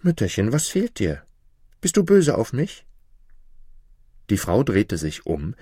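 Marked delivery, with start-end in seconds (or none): 0.0-2.8 put-on high, anxious child asking his mother; a worried boy begging to be forgiven; pleading little boy. A narrator's reading. Jakob asks his mother why she is upset, anxiously pleading. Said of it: "Dann sprach er".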